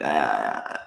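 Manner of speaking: low, drawn-out "ah" of disgust; disgusted groan. Acted. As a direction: groan at touching something gross. Disgust at sticky kiosk, acted.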